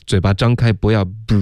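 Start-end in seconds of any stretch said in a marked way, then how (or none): 0.7-0.9 不 with rounded, pushed-out lips; pursed-lip mistake. Shown as a demonstration. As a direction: demonstrate the pouted 不 sound. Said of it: "你的嘴唇还是撅着的".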